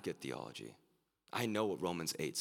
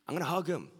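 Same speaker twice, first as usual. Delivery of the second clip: much higher and louder, bursting with joy; gleeful exclaim; 12 semitones higher, 7 dB louder, faster than usual. Real, not acted. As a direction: shout it out with pure delight. Gleeful climax of imagined reunion.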